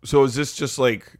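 Eli Manning voice. Acted. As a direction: play a sheltered shy son.

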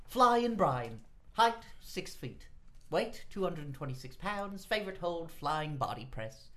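lightly voiced Japanese accent; hint of a Japanese accent; put-on Japanese accent. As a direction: read the stats in a mock Japanese accent. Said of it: "it's a Japanese accent".

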